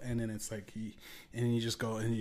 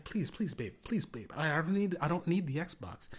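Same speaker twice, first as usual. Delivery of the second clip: higher, pleading husband begging babe; Will begs his wife to stop, pleading higher; 5 semitones higher than usual. Retold or imitated. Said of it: "And he's like".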